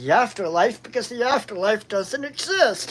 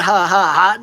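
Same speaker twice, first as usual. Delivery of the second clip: mock laugh; 3 semitones lower, 6 dB louder than usual. Mocking laugh in acted quote.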